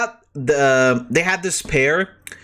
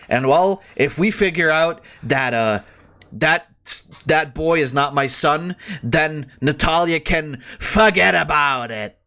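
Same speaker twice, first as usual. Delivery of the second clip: put-on Italian American accent. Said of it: "it's like if I do, do an Italian American accent".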